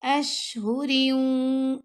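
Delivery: أَشْهُرٍ with a whispered, breathy ش; أَشْهُرٍ with hams on shin. Shown as a demonstration. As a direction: release air on ش in أَشْهُرٍ. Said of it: "شین پر ہم نے ہمز کیا".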